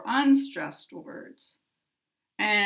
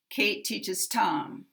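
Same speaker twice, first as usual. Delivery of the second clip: Tom longer and stronger, falling at the end; stress on Tom. Shown as a demonstration. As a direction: model sentence with main stress on Tom. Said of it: "Tom is going to get the maximum".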